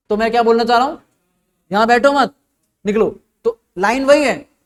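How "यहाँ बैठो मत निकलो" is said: बैठो मत as one phrase, break, then निकलो; pause after मत. Shown as a demonstration. Teacher spelling out the go-away meaning to students, pause after मत before निकलो. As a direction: stop after मत and set निकलो apart. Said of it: "बस मैंने pause लिया".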